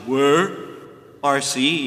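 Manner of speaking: Flintstone voice. Retold or imitated. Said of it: "That's the way he says it".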